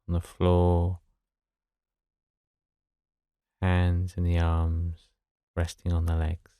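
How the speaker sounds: level, unhurried meditation voice with long pauses; guided meditation. Acted. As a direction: gently guide them to settle, phrase by phrase.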